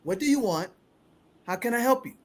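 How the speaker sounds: calm and kind, keep it monotone; kind low soft monotone. Shown as a demonstration. Homeowner calmly asks the woman on his driveway, kind low voice. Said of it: "he says it like this".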